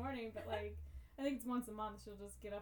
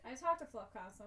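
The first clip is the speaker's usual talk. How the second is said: ordinary talk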